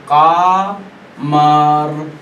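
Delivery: वल कामर very slow, कामर stretched long; वल कामर drawn out, the ल sounded; drawn-out recitation. Shown as a demonstration. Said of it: "वाव और लाम".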